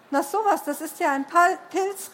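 astonished. Acted. Jonas discovers the glowing thing is a mushroom, astonished. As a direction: marvel at an odd discovery. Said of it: "rief Jonas erstaunt".

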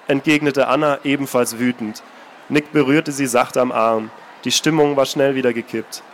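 even, measured reading voice; calm storyteller reading a novel aloud; story narration. A narrator's reading. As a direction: read it like an audiobook narrator. Author reads novel aloud.

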